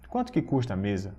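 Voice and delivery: brisk emphatic question falling after "Quanto"; intensified question intonation. Shown as a demonstration. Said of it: "faz isso com a entonação da voz".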